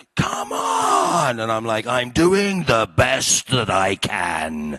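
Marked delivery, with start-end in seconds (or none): 0.2-1.4 put-on, very high, enraged scream. Retelling how a colleague screamed at him during a scene, retelling a scream. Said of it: "he screamed at me like".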